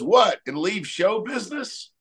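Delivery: high, shocked "What?" then an offended question; mock indignant surprise. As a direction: play the punchline as an outraged old trouper. Joke punchline, indignant old guy.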